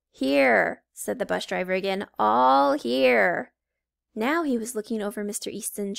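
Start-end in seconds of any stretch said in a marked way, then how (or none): 0.1-0.8 bored bus driver. Acted. Creepy driver answers teacher. 2.2-3.5 bored bus driver. Acted. Creepy driver answers teacher.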